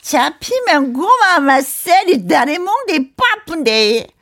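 slow, loud Gyeongsang threat; rough Gyeongsang man voice; Gyeongsang dialect. Retold or imitated. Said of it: "경상도 사나이". (경상도 사투리로 느리고 크게)

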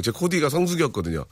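usual speaking voice

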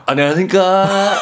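high, laughing half-cute formal hello; in-between greeting. Acted. Employee trying a middle voice for the boss, comically half-cute. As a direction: blend formal with cutesy, amused. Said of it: "그 중간 정도로 해야 되나?".

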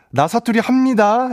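self-consciously bad Gyeongsang accent; awkward fake Gyeongsang dialect. A Seoul DJ mocking his own Gyeongsang attempt, awkward Gyeongsang accent. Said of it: "이런 느낌이 되니까 이게 오히려 더 웃음거리가".

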